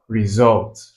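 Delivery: "Result" with weight on SULT; teacher's demo of "Result", second syllable stressed. Shown as a demonstration. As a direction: lean on the end syllable of "Result". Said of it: "stress on the second".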